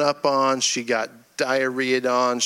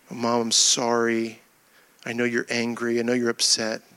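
subdued apology; 3 semitones lower than usual. Retold or imitated. Son apologizing to his crying mother, subdued and sorry.

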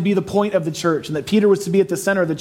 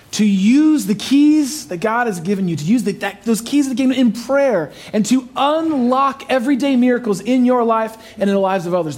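rising preacher fervor; 5 semitones higher than usual. Real, not acted. Sermon climax, urging use.

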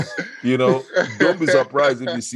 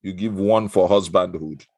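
hammed-up Igbo accent for a game segment; 2 semitones lower than usual. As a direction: play the host in a broad Igbo accent. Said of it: "I pick the Igbo accent".

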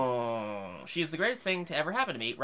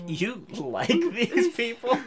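put-on girlfriend voice; 7 semitones higher, much slower than usual. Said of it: "She's like".

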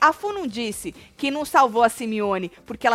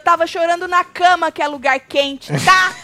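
loud, high imitation with a shout; mock outraged housemate; 6 semitones higher, 7 dB louder than usual. Host imitating Kali to co-host, loud high mock rant. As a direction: ham up her indignation, loud and high.

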